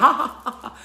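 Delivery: high, loud ha ha ha; imitating the room flipping to laughter; mock laughter. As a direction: switch straight into a hammed-up laugh. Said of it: "And that's like".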